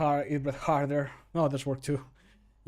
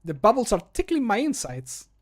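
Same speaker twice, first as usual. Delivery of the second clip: tipsy character line; 6 semitones higher, 6 dB louder than usual. Acted. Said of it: "when he's drinking the ale".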